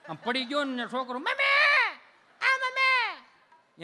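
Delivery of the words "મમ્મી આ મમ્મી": very high, slow stretched crying call of mummy; boy wailing for his mother, very high and drawn out; mock child wail. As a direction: wail like a spoiled child who fell. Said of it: "એમ રાયડું નાખતો હોય".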